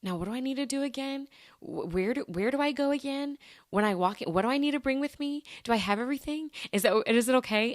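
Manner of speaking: retold mild fluster, questions lifting in pitch; nervous fretting. Podcaster acting out her worry about renewing tags, nervous questioning. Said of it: "I get nervous 'cause I'm like".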